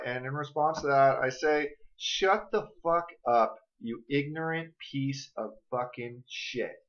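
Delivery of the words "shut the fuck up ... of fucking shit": slow, measured put-down; word-by-word contemptuous dismissal; deliberate retort. Acted. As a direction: drop lower and quieter as the insult lands. Scripted retort to imagined objectors.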